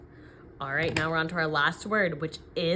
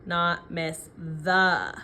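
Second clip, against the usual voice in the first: slow, deliberate dictation; dictating; much slower than usual. Shown as a demonstration. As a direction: read it out slowly for spelling. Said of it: "teacher dictating sentence slowly".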